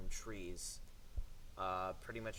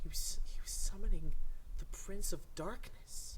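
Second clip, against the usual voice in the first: dramatic doom proclamation; 9 semitones higher, 4 dB louder than usual. Acted. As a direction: declaim it like a doomsday prophet. Spooky reveal of satanic ritual.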